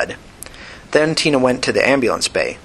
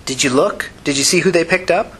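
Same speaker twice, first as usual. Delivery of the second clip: eager questioning; 6 semitones higher than usual. A narrator's reading. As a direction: pitch climbing through two questions. Tina presses the witness.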